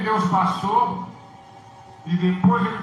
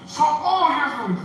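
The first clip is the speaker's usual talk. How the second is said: a high, loud cry of Socorro, Jesus; crying out for help; 7 semitones higher, 3 dB louder than usual. Retold or imitated. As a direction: call out to Jesus in anguish, louder and higher. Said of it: "ele gritava assim". (grito alto e desesperado por socorro)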